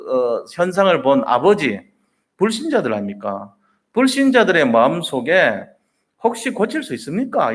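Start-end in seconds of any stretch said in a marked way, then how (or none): 6.2-7.5 doubtful question. Retold or imitated. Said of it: "이런 의심을 갖고".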